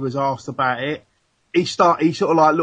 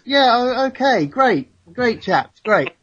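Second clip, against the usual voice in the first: telephone voice; 7 semitones higher, slower than usual. Pretend. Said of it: "this is my telephone voice".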